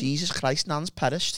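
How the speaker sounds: high, laughing Scouse exclamation; Scouse accent. Pretend. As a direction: do a Liverpool nan gag. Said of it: "You do one of the best Scouse accents".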